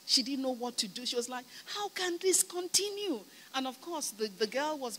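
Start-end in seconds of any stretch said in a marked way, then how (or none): 1.7-3.2 mildly acted distraught question; retold distress. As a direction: imitate a friend who is at a loss. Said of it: "she was so distressed".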